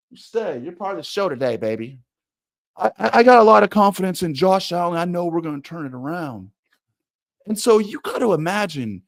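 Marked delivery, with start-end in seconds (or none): 2.8-6.5 higher-pitched, hesitant coach voice; mock the unsure coordinator with a raised voice; hammed-up meek press conference voice; Ken Dorsey impression. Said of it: "Ken Dorsey talks more like this".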